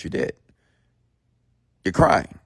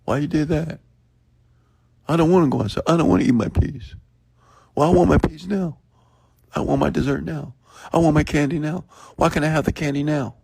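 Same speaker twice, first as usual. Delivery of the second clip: put-on much higher whiny kid voice; whining child; 11 semitones higher than usual. Mother imitating her young kids whining for toys and candy. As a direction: play a child begging mom for candy. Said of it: "if I would take a toy from them".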